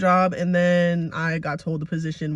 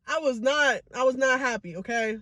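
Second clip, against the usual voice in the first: higher, upset admission; tearful; 3 semitones higher, 5 dB quieter than usual. Real, not acted. Admitting unhappiness to viewers, tearful. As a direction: admit it while holding back tears. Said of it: "maybe I need to cry".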